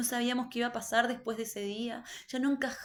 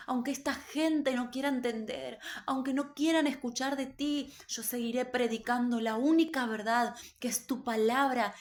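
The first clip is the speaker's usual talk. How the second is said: crying out; 2 semitones higher than usual. Retold or imitated. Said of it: "como con un clamor y decía".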